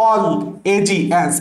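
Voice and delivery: "all এ জি এনস" with a gap after "all"; "all", pause, then "এ জি এনস" piece by piece; broken-up pronunciation. Shown as a demonstration. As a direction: recite "all, এ জি এনস" as a memorised hook. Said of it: "তোমার উচ্চারণে automatically এসে".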